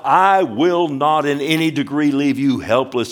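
"I will not" driven home a third time; emphatic. Shown as a demonstration. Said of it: "emphatic three times".

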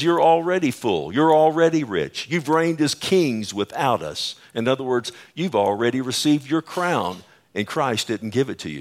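mock-admiring emphasis, voicing Paul's sarcasm; retold sarcasm, punching the opening claims; sarcastic. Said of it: "You see, he's being sarcastic".

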